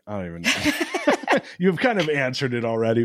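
amused at his own question; laughing disbelief. Retold or imitated. Host admitting to guest he's stumped, laughing. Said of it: "where I'm like".

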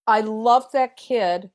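slow, tender love; fond. Real, not acted. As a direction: linger on it fondly. Fond of character.

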